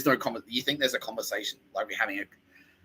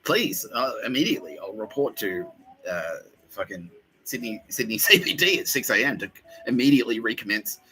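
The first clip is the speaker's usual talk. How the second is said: sarcastic mock conversion; 2 semitones higher than usual. Sarcastic reply to ads.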